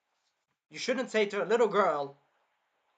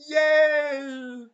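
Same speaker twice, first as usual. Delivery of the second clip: much higher, louder delighted shout; gleeful cheer; 9 semitones higher, 11 dB louder than usual. Real, not acted. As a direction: cheer as the villain gets hit. Cheering at villain's pain.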